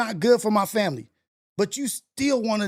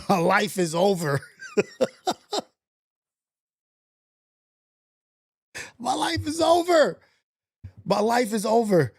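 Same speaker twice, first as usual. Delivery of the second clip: hammed-up tragedy; laughing mock despair; 3 semitones higher than usual. Real, not acted. Laughing despair over game.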